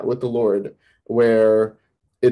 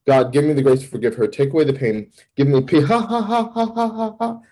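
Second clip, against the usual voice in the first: prayer breaking into laughter; 2 semitones higher than usual. Retold or imitated. Man retelling his desperate prayer, abruptly laughing hysterically. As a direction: pray quickly, then crack up mid-word. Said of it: "I start laughing".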